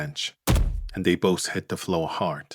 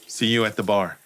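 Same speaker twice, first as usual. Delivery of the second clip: raised voice, calling out; 3 semitones higher, 4 dB louder than usual. Acted. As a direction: call across the room. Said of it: "Cal calls out".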